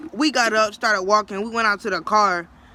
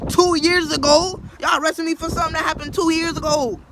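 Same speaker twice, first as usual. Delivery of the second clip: indignant disbelief; 6 semitones higher than usual. Retold or imitated. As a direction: stretch out two years ago in outrage. Protesting to officers.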